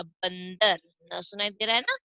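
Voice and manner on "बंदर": "बंदर" with an n sound right after ba; "बंदर" said as a careful model word; nasal after ब. Shown as a demonstration. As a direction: let the nasal ring in "बंदर", ban-dar. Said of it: "ब के बाद में इसका उच्चारण".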